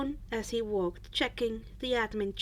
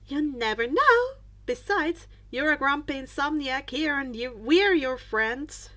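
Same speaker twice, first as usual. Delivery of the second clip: reassuring; 4 dB louder than usual. Acted. Reassuring friend.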